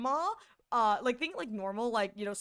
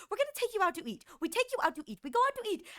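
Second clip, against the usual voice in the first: a lightly voiced, higher eager grandparent; grandparents' voice; 8 semitones higher, much faster than usual. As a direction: announce the buffet trip like doting grandparents. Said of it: "always, like".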